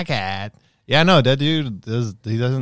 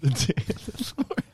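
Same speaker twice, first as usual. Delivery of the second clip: high, distant churchy echo; mock preacher voice; 8 semitones higher, 5 dB quieter than usual. Echoes it in put-on voice.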